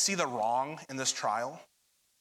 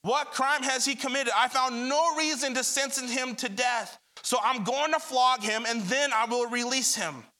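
raised, insistent questioning; Pilate's demand, read with force; 7 semitones higher, 3 dB louder than usual. A narrator's reading. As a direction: press the crowd for an answer. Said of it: "he demanded".

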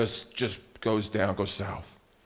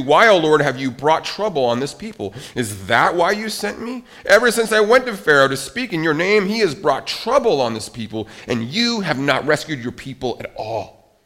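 mock frustration; 2 semitones higher than usual. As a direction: voice Moses' complaint, lightly exasperated. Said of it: "Did you hear the irritation?".

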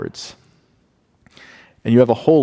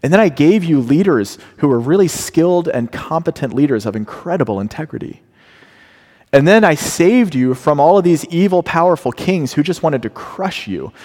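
raised, emphatic voice of God; proud reminder; 6 semitones higher than usual. Retold or imitated. Preacher voicing God recalling deliverance from Egypt. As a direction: recount his rescues with force. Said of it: "he says roughly this".

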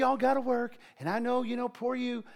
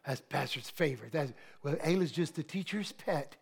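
lower, softer resentful grumble; grumbling jealousy; 6 semitones lower, 6 dB quieter than usual. Retold or imitated. Pastor imitating resentful members, low grumble. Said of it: "people start feeling like".

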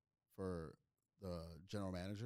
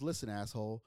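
mildly raised, snappy mock anger; mock angry manager; 2 semitones higher, 6 dB louder than usual. Comic retells manager calling him asshole, mock angry. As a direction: play the furious club manager, lightly. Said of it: "He was fucking mad".

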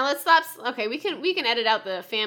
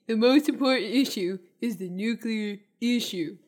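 Trump impression; 2 semitones lower than usual. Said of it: "what do you think I sound like".

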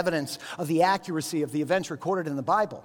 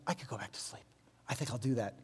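much softer, sleepy, low murmur; half asleep at night, talking to yourself; drowsy murmur; 6 semitones lower, 11 dB quieter, faster than usual. Retold or imitated. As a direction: mumble as you drift back off. Half-asleep back from bathroom.

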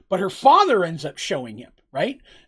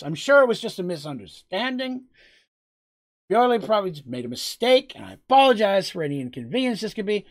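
nervous mayor grovelling. Acted. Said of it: "Or he can do the smart thing".

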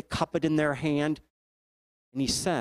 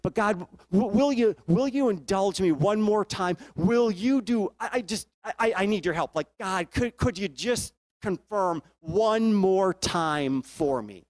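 higher, earnest begging to God; a preacher voicing Gideon's anxious plea; pleading Gideon; 4 semitones higher than usual. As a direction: beg God for one more sign.

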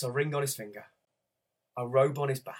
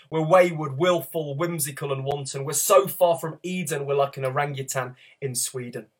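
rhythmic rhyming poem, swelling and fading; spoken word poem. Acted. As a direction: perform it like slam poetry.

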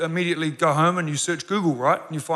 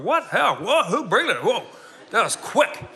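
higher, rapid-fire baffled questions; stunned disbelief; 5 semitones higher than usual. Retold or imitated. Husband hearing his wife is pregnant, stunned disbelief. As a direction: play your own shock at the news. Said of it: "I'm like".

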